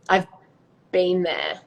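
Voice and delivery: "I've been there" with Australian "been" said like "bin"; broad Aussie "been" as "bin"; Australian accent. Shown as a demonstration. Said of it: "in an Australian accent, you'd say".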